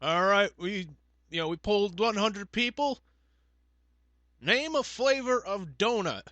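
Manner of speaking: high-pitched game show host; Steve Harvey. Acted. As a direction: pose the question in drawn-out host style. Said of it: "So Steve Harvey comes out".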